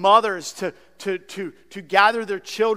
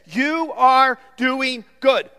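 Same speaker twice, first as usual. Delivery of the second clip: slow, higher, louder encouragement; affirming praise; 5 semitones higher, 5 dB louder, slower than usual. Shown as a demonstration. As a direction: say it as sincere praise. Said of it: "It literally means this".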